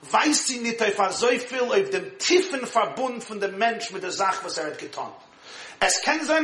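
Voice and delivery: steady recitation of the Yiddish source; reading a text aloud. Acted. Rabbi reading the Yiddish source to his class, recited. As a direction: read the passage out like a study text.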